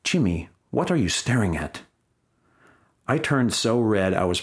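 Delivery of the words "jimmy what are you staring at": put-on German-accented woman, words set apart; thick German accent. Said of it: "said in her thick accent".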